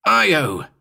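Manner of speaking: calling the dog back from danger; yelled name. Acted. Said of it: "I yelled again".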